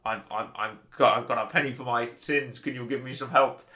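a hint of faux Scottish accent; lightly done faux Scottish Connery Bond; Connery impression. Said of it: "I'm doing my Connery impression".

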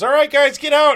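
imitating the ride operator. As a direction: bark it like a bored carny. Ride operator ordering them off.

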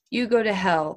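fierce retort. Acted. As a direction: snap it back fiercely. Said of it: "the boy said fiercely".

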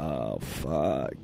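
low, soft dismayed curse; quiet curse. Retold or imitated. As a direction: mutter it under your breath. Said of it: "I'm like".

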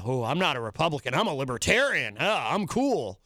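lightly mocked self-styled rebel, singsong pitch; mocking imitation. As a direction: imitate a poser bragging about being cool. Mocks self-styled rebel libertarians.

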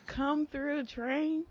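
high, bright cheer; excited call. Real, not acted. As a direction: call it out like a chant. Cheering on the train.

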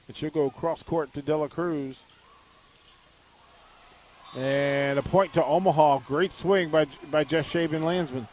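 measured volleyball play-by-play, key words punched; live play-by-play. Real, not acted. Radio announcer calls the point to listeners, play-by-play. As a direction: call the rally as it unfolds.

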